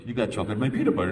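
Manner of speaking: quick, bright ad-read delivery; fast mock commercial voice; old commercial line. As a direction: rattle it off like a TV spot. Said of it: "like that old commercial".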